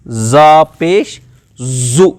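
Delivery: زا پیش زو drawn out with a firm z; hard z. Shown as a demonstration. Teacher drills زا پیش زو, read with firmness. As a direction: press the z hard in زو, spelling slowly. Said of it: "سختی کے ساتھ پڑھیں گے".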